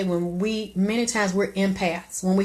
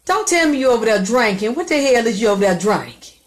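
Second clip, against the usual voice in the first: loud scolding; 3 semitones higher, 5 dB louder than usual. Real, not acted. Scolding caller about drinking.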